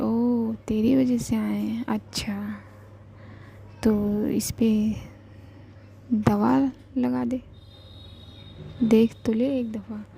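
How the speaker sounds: slow, teasing dare; mischievous, playful nudge. Acted. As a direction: tease her out of her tears. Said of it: "शरारत शुरू कर देती है".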